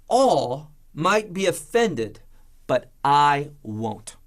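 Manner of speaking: slow, deliberate Peter boast, I stressed; drawn-out claim of being the exception; slow defiant vow. Retold or imitated. Preacher voicing Peter's slow proud vow. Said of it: "he shows that he's different".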